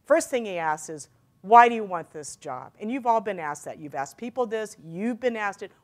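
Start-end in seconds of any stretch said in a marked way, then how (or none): 1.4-2.7 louder, forceful opening on "Why"; direct interview question. Retold or imitated. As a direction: launch straight in with a loud "Why". Interviewer's question, first take.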